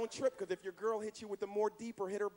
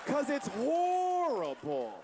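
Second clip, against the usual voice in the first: punchline shout; 5 semitones higher, 3 dB louder, much slower than usual. Real, not acted.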